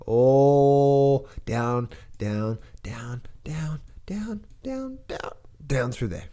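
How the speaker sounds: mock-dramatic price drop; dramatic plunge. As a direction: ham up the crash with sliding downs. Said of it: "let's make that very dramatic".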